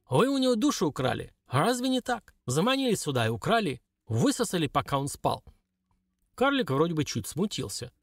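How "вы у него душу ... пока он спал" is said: put-on old shaman. Shaman speaks.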